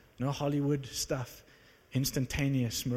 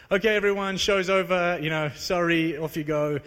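mock dismissal; 2 semitones higher, 4 dB louder than usual. Preacher pretending to send the crowd home, louder mock announcement. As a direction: wave the crowd off like an awkward MC.

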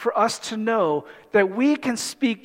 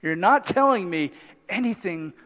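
God's gentle reply; 4 semitones lower, 4 dB quieter than usual. Retold or imitated. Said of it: "God's like".

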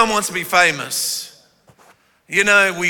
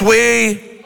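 forceful shout; 5 semitones higher than usual. Shown as a demonstration. Leading the congregation in a forceful response. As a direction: punch out the word We. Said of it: "say it with a bit of force".

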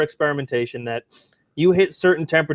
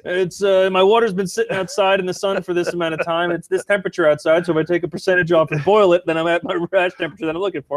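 put-on old-time brewer; 4 semitones higher, faster than usual. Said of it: "voicing an old-time brewer".

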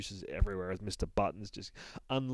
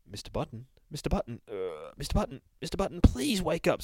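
pleading narrator; 5 semitones higher than usual. Acted. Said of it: "says the narrator".

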